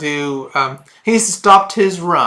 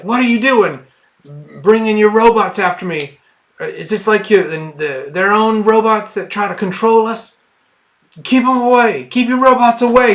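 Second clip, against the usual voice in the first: enormous dude yelling; 5 semitones higher than usual. Acted. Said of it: "the enormous dude is like".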